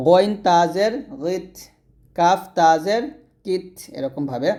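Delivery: "গিত" and "কিত" ending in a breathy released t; airy final t. Shown as a demonstration. Teacher showing students the breathy final t. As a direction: let air out on the last "ত" of "কিত". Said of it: "প্রত্যেকটা লাস্টের বাতাস বের করতে চাই".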